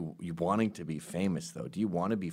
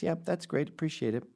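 higher, quick brush-off; polite refusal; 4 semitones higher than usual. Retold or imitated. Will Ferrell brushes off the PR head, high and quick. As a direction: dismiss her politely but firmly. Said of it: "And he goes".

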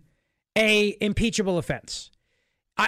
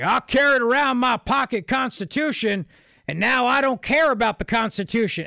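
dopey, raised Southern hick voice; mocking Southern accent; 3 semitones higher than usual. Host imitates pundit ridiculing conservatives, mocking Southern accent. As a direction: mimic a sneering fake trailer-park twang. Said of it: "and his little mocking".

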